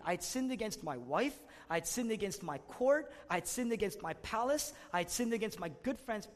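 David's reasoning prayer. Retold or imitated. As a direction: hammer out each wrong done, building. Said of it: "he would say".

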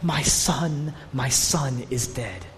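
low, soft, slow lament; a grieving father's hushed mourning, words spaced out; understated imitation of weeping over a son; acted weeping grief. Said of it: "He's weeping. He's crying".

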